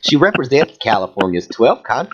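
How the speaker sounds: campy Southern reading voice; lilting hammed-up Southern accent; put-on Southern accent. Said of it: "keep reading that voice".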